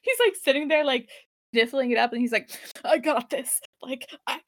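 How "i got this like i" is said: mock crying. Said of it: "he's legit crying now".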